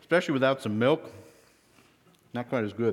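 talking through a mouthful of cookie; chewing while talking; mouth full. Real, not acted. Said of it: "excuse me talking with my mouth full".

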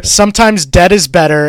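put-on Maine accent. Host rebutting co-host with the movie tagline, mock Maine accent. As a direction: punch out the tagline in bad Maine. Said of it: "this terrible Maine accent".

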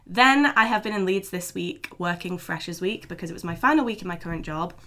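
lost voice, hoarse and strained. Real, not acted. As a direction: talk through a worn-out voice. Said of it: "if I sound like a frog, that's why".

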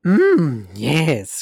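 a loud, lightly voiced Yoda cry; cried out. Host reading Yoda's cry from the fan fiction out loud. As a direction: let it burst out like Yoda at the climax. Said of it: "cried Yoda".

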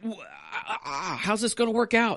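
high, slow fretting voice with a laugh; hammed-up panic about water; mock worried Israelite. Grumbling Israelites fretting about water, high mock worry.

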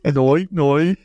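mock penguin honk; Pingu noise. Imitating Pingu for friends, a playful honk. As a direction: squawk it like Pingu.

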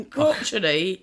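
crotchety said slowly, savoring each syllable; crotchety drawn out, crotch sound; practising the word. Shown as a demonstration. Guest slowly practising crotchety after correction, drawn out. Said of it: "Yeah, crotchety".

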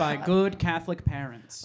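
put-on Midwestern accent. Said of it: "I'm gonna keep it up the whole time".

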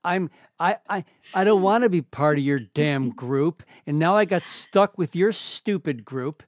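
lightly voiced bitter rant; mock grumpy rant. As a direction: sulk at the group. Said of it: "I'm like".

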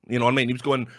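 ordinary delivery

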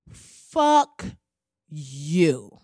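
drawn-out fuck you; blunt dismissal. Real, not acted. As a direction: spit it at the crowd. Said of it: "let me just say".

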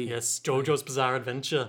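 low, subdued put-on Scottish; Scottish accent. Co-host naming the show in a joke, Scottish accent. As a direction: play along in a Scottish accent. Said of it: "default to a Scottish accent".

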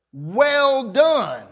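"well done" with weight on "done"; stress on DONE. Shown as a demonstration. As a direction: lean on "done", high then falling. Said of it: "The emphasis is on the done".

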